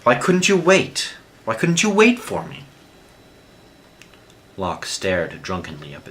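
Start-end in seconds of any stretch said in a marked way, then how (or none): 0.0-2.6 much higher, loud, breaking plea; anguished wail. A narrator's reading. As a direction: howl the question in despair. Jean grieving over wounded Locke.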